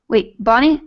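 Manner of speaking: usual speaking voice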